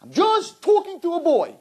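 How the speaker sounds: high, lightly voiced mock girl excuse; mocking girl's excuse. Rabbi mocks the excuse he hates, high mock voice. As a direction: parody the naive girl brushing it off. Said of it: "I hate that line".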